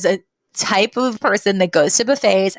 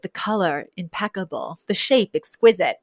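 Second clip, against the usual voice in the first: connoisseur's mock awe. Fran admiring a large shrimp, hushed mock appreciation.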